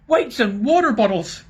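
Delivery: high, loud furious oath; squashed dwarf curses; angry voice. A narrator's reading. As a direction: splutter with rage. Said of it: "came an angry voice".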